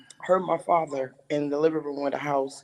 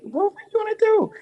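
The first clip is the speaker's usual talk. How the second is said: imitating Destiny; 3 dB louder than usual. Voicing Destiny in retold talk.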